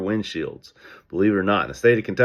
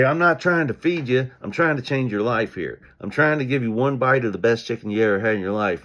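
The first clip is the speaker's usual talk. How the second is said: eager sales pitch; 4 semitones higher than usual. Retold or imitated.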